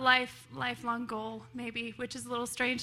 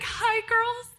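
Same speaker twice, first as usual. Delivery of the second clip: excited greeting; 10 semitones higher, 6 dB louder than usual. Retold or imitated. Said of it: "I'm like".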